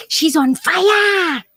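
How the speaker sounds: drawn out, burning tongue; mouth burning. Real, not acted. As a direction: gasp it through a burning mouth. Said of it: "so I can catch my breath".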